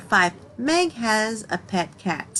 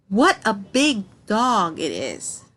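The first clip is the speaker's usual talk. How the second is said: slow, amazed exclamation, a little louder; 3 dB louder, slower than usual. Shown as a demonstration. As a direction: marvel at how big the dog is. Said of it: "how amazing".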